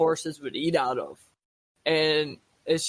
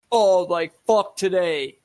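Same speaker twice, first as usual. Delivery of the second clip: grumpy; 5 dB louder, slower than usual. Retold or imitated. Grumpy passers-by on sunny day.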